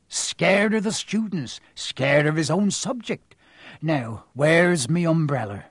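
slow, hearty West Country giant; a hint of a chummy big man; lightly voiced Hagrid. Hagrid gossiping to Harry about Quirrell.

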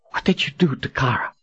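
urgent heroine question; female character voice. A narrator's reading. Kahlan demands answer.

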